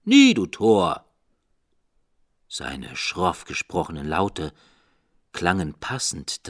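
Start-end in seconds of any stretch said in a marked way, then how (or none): 0.0-1.0 loud raven cry, higher; the raven snaps back, loud and high; the raven's harsh loud retort; raven's croak. A narrator's reading. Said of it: "Sprach der Rabe".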